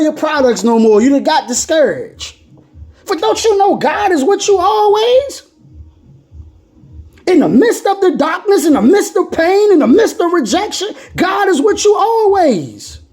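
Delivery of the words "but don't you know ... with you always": tearful preaching. Real, not acted. Preacher to struggling listeners, tearful and fervent. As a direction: preach it through near tears. Preacher's emotional climax about God.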